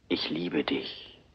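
slow, breathy-free whisper of love; whispered confession. Acted.

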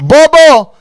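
high, loud shout of bobo; shouted insult. Real, not acted. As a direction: yell it out in scorn. Mocking the scene, shouts insult. (malakas na sigaw ng pangungutya)

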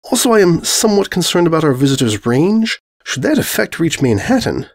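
a stately princess with dry wit; the white princess explains the screams with mock gravity; regal mare. Celestia voiced again.

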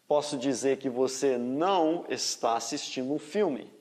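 ordinary talk

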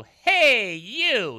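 put-on loud, sharp call to a child across the river; ranger yelling. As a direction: yell it like an angry park ranger. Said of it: "yelled the ranger to a child".

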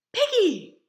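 high, loud shout of a name; excited shout; loud call. Acted. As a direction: call out to a friend in surprise. Gerald spots his friend.

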